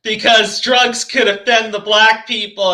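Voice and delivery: drawn-out mock-sorry quote; mock apology. Mimics another's absurd apology.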